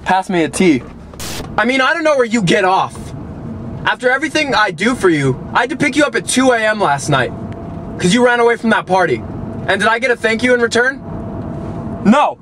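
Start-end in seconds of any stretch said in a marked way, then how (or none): 1.6-12.4 exasperated scolding. Acted. Scolding the dog like a teen.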